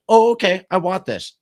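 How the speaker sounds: high, loud eager yelp; eager oh okay. Retold or imitated. Calm man accepting the tough guy's challenge, gleeful high yelp. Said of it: "And he goes".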